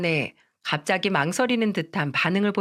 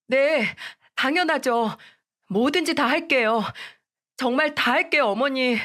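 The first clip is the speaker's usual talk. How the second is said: put-on higher, tearful-sounding young wife begging; a young wife pleading, voice pitched up; pleading daughter-in-law; 5 semitones higher than usual. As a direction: beg your mother-in-law not to force a divorce. Daughter-in-law eagerly agrees.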